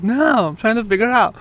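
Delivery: high-pitched imitation of the wife; mock wifely reply, pitched well up; retold exasperated wife. Wife answering her husband's question, retold exasperation.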